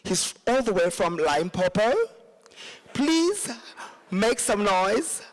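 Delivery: mock posh MC voice, measured and grand; lightly hammed-up posh emcee; posh announcer. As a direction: introduce the act with exaggerated poshness. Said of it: "I'm going to speak very posh".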